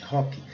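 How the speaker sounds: "Hockey" ending in a strong ee; English "Hockey", H sounded, Y said as a firm I; strong final Y. Shown as a demonstration. Teacher stresses the Y sound, English pronunciation. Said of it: "O Y bem forte".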